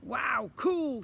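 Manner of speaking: high, loud amazed cry; excited shout. A narrator's reading. Children with the loot, excited high shout. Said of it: "shouted the children".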